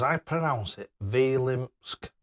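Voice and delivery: slow, careful "Vilimsk" said as vi-limsk; Neil's pronunciation. Retold or imitated. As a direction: spell out "Vilimsk" slowly like Neil does. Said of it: "Neil says".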